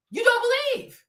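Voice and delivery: ordinary talk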